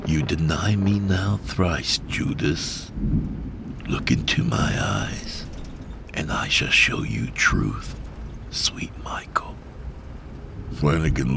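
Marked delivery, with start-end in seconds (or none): 0.0-9.5 eerie breathy spectral voice; ghostly whisper. Acted. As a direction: hiss it like a ghost. Quaker ghostly.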